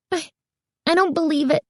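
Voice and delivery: high, breathless and halting; stunned girl exclaiming breathlessly; breathless exclamation. A narrator's reading. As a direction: gasp it out. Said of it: "exclaimed breathlessly".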